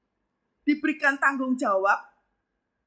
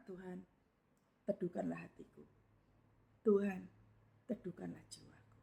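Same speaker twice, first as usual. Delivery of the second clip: hushed prayer; 6 semitones lower, 15 dB quieter than usual. Retold or imitated. Quietly voiced prayer in the heart.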